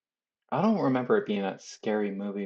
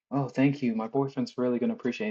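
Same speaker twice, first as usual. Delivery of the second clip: put-on girl's thanks; 3 semitones higher, faster than usual. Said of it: "the girl's like".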